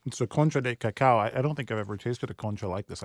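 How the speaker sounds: talking through a mouthful; words round a bite of food; mouth full. Real, not acted. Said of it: "I know it's rude to talk with food in your mouth".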